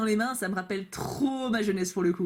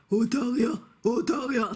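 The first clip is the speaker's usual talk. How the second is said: slurred mock impression of a druggy voice; drugged-sounding creature; slower than usual. Vlogger mocking a Pokémon's odd voice, druggy impression. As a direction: say it like a spaced-out creature. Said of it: "il a une voix de drogué".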